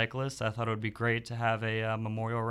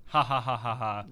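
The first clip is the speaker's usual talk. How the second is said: courtesy laugh. Pretend. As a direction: fake polite ha ha ha. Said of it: "Courtesy laughs".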